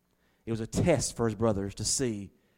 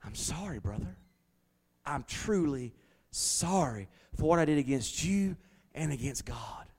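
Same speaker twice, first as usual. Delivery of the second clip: hushed repentant apology; 5 dB quieter than usual. Retold or imitated. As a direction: confess it quietly, ashamed. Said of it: "repentance from them".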